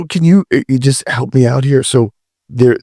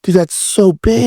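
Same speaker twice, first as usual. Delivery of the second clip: amazed; 9 semitones higher than usual. Real, not acted. Host reacts to size.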